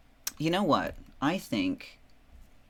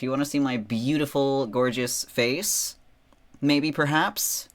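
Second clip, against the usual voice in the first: coy, teasing, higher and louder; 5 semitones higher, 6 dB louder than usual. Real, not acted. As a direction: tease the audience playfully. Teasing face reveal to chat.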